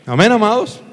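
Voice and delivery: high, loud call to the congregation; ringing pastor's cry; rousing call. Real, not acted. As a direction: lift the whole room with it. Preacher calls out to congregation.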